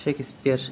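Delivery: শেক্সপিয়ার said as "shek-ispiar"; model pronunciation. Shown as a demonstration. Teacher showing how the pronunciation goes, model split. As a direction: say শেক্সপিয়ার with a break before the "sp". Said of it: "উচ্চারণটা এভাবে হয়".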